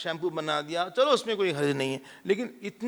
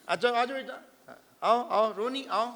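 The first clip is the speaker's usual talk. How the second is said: high-pitched call to a beloved dog; coaxing a pet; 6 semitones higher than usual. Acted. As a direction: play a doting owner calling the dog over. Doting owner calling the dog.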